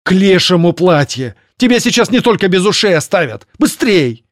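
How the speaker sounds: high, loud furious outburst. Acted. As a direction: rage at her to move. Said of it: "Серая проговорила в бешенстве".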